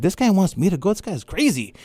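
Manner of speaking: high-pitched incredulous aside; retold disbelief. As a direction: recount your own amazed reaction. Reacting to the mentor's unlikely offer.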